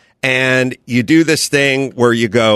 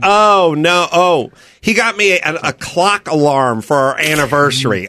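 mock complaining ex, higher; ex-girlfriend voice; 3 semitones higher than usual. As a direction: whine like a let-down ex at brunch. Ex mocking his gift.

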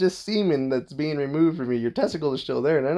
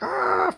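imitated panicked "ah", voiceless; hammed-up voiceless cry of panic; mock freak-out cry. Showing how he doesn't react when choked, mock freak-out. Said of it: "freaking out or nothing".

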